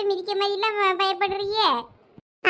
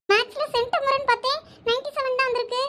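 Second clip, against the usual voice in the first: disappointed; 5 semitones higher than usual. Acted. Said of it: "இதுக்கு எதுக்கு நீ மூஞ்ச தொங்க போட்டுட்டு இருக்க".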